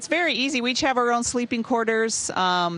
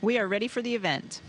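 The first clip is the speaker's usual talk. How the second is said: mission control radio; 5 dB quieter than usual. Real, not acted. Station answers over space link.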